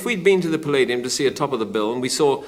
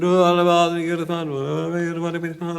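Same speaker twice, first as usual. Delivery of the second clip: camp voice; 3 semitones higher than usual. Retold or imitated. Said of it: "a camp voice".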